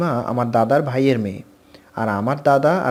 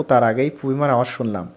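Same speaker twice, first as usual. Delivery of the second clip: plain reading voice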